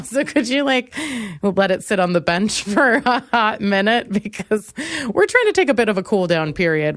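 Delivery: playful whiny request; mock pleading. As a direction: beg the song to stop, half laughing. Pleading with the music, acted.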